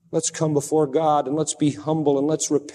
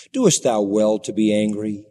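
mild gentle rebuke; 5 semitones lower than usual. Acted. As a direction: gently chide the angry prophet. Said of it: "Isn't that mild?".

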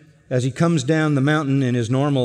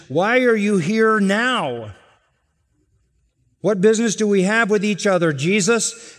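demon voice; 8 semitones higher, 3 dB louder than usual. Acted. Demon questions Jesus in sermon.

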